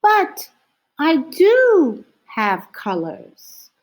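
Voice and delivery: small voice pitched high, pleading; a small owl crying out to be heard; high, plaintive cry. A narrator's reading. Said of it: "cried the little white owl".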